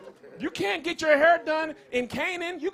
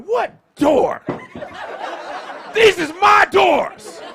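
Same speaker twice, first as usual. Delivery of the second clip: mock outraged dad; 6 dB louder than usual. Dad refusing son's request to close door, mock outrage. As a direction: bellow like you paid for every door. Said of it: "I was like".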